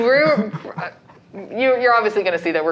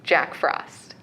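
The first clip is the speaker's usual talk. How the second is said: ominous whisper; 5 semitones lower, 5 dB quieter than usual. Acted. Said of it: "dramatic title reveal".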